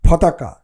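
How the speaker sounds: ফতাকা with a breathy ph; aspirated ph. Shown as a demonstration. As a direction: puff the ফ of ফতাকা. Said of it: "ওটা ফতাকা হবে".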